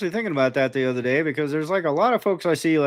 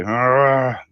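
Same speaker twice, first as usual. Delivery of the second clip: frustrated growl; 4 dB louder than usual. Retold or imitated. Acted captive's frustration.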